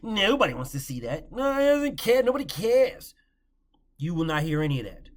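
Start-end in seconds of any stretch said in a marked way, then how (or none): 1.3-3.1 higher, louder scoff; high scornful retort. Real, not acted. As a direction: toss it off with scorn. Mocking dismissive critics.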